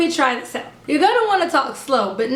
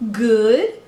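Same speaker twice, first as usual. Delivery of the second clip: put-on toddler reply; 4 semitones lower than usual. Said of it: "she started saying".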